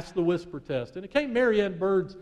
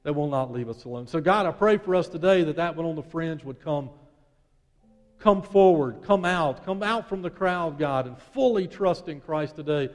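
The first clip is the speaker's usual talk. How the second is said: earnest prayer; 2 semitones lower than usual. Acted. Leads a closing prayer.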